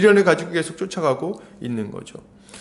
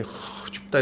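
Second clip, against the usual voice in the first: breathy, voiceless shiver at the cold; huddled by a fire, low and breathy; acting cold; 3 semitones lower, 9 dB quieter, much slower than usual. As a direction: blow out a chilled breath and murmur softly. 모닥불 앞 추워하는 사람들 흉내.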